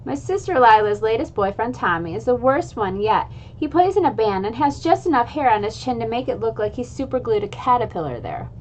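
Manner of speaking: put-on lively read-aloud of a children's chapter book; story narration. A narrator's reading. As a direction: read it like storytime for a class of kids. Reads chapter aloud to viewers.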